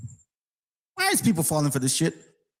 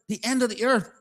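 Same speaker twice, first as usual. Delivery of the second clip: higher-pitched, disbelieving question; incredulous echo; 7 semitones higher than usual. Real, not acted. Challenging a doctrine with the verse's words, incredulous. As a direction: repeat it as if it's absurd.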